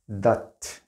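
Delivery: That said short and light, like dat; weak that. Shown as a demonstration. Teacher showing students how That sounds, said short as dat. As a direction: That as a quick unstressed dat. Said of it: "이렇게 발음되죠".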